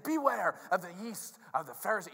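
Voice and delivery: earnest teacher's caution; serious warning. Acted. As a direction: proclaim it like a grave lesson. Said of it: "has a real serious thing".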